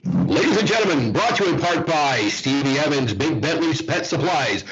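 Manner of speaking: hammed-up radio announcer read. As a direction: boom it out like an old-time radio sponsor spot. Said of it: "You give me a chance to use my announcer voice".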